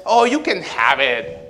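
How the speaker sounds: slow, offhand brother giving it away; lightly voiced easygoing older brother; careless Esau. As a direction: shrug it off slowly like it's nothing. Esau gives up his birthright.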